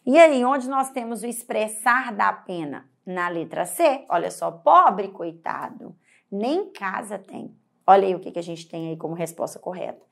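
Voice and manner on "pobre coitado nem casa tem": pitying read. Shown as a demonstration. Reads the correct option.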